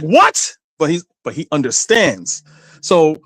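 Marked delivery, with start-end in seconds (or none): 0.0-0.6 high startled question; lightly acted puzzled man; a touch of shock; mock surprise. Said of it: "the man's like".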